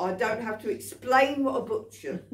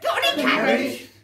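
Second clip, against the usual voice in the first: louder cheeky bunny ask; cheeky rabbit voice; 7 semitones higher, 7 dB louder than usual. Acted. Rabbit back at the counter again, loud cheeky ask. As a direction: squeak it out with cheek.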